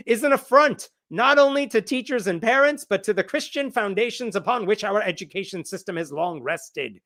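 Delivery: put-on Irish accent, starting high and settling; lightly hammed-up Irish accent. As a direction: quote him in a makeshift Irish accent. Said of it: "this is my Irish accent".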